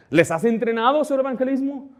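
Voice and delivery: high, pointed retold question; challenging question. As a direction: press a rash colleague for an answer. Retold challenge to young pastor.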